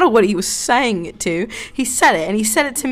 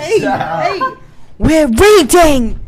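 laughing protest; 4 semitones higher, 3 dB louder, much slower than usual. Real, not acted. Friends interrupting the reading.

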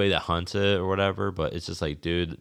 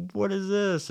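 much higher, incredulous squeal of a question; baffled exclamation. Retold or imitated. Seeing a horse come down the hunting trail, a high baffled question. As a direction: sound utterly thrown by what you see. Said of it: "I was like".

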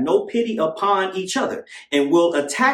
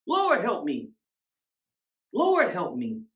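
soft prayer to the Lord; quiet plea; 2 semitones higher, 5 dB quieter, slower than usual. Real, not acted. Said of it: "God, I'm preaching".

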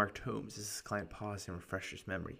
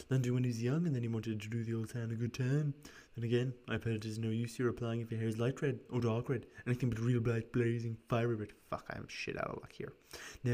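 raspy voice; 5 dB louder than usual. Acted. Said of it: "this raspy voice for him".

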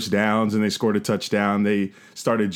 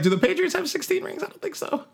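very high mocking voice; mocking taunt. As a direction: needle the rival fans, mocking. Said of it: "I was like".

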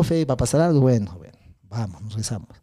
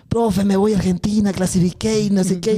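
put-on thrilled boy; 6 semitones higher than usual. Boy phones teacher, overjoyed.

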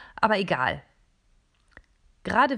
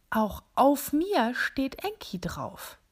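slow whisper, higher in wonder; awed whisper; 6 semitones higher, slower than usual. A narrator's reading. Robot whispering as it finds Enki on itself. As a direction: breathe it out in amazement.

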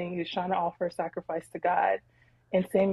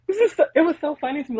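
high, loud burst of real laughter; laughing; 8 semitones higher, 5 dB louder, much faster than usual. Real, not acted. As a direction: laugh through the words, amused. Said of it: "I was laughing as I was reading this".

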